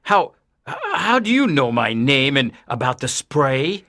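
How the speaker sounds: low voice with a nervous stammer. A narrator's reading. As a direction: stumble on the first word, uneasy. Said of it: "asked Mister Kent nervously".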